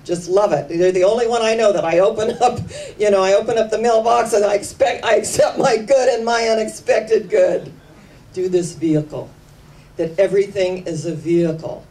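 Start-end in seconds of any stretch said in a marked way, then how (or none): 0.1-5.1 delighted mailman. Retold or imitated. Mailman tells Doctor Sharon he loves her mailbox affirmation, quick and laughing. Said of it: "And he said". 5.1-9.3 mailman reciting her affirmation. Retold or imitated. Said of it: "And he said".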